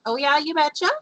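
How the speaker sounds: mock Minnesota "you betcha"; Minnesota accent. Host joking with guest about sounding Minnesotan, Minnesota accent. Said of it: "we actually do talk like that".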